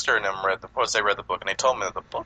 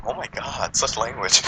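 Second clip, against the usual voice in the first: shocked stewardess; 3 semitones higher, slower than usual. Pretend. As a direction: play a scandalized stewardess under your breath. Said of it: "The stewardess would be looking like".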